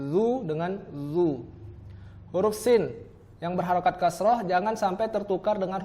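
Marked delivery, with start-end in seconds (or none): 0.1-1.5 "zu" as a light th-sound, then "zu" as a heavy emphatic zo; slow articulation demo; zal versus zo. Shown as a demonstration. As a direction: contrast a thin "zu" with a thick one. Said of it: "Beda ya".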